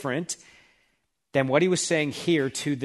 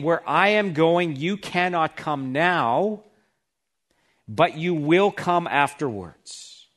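gentle reassurance; slower than usual. Shown as a demonstration. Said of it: "He's saying".

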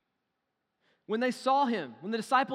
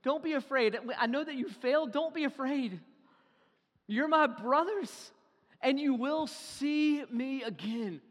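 tender reassurance; 5 semitones higher than usual. Retold or imitated.

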